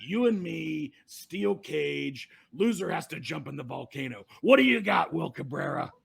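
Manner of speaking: hyped-up wrestling promo voice. Pretend. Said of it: "give me a wrestling promo".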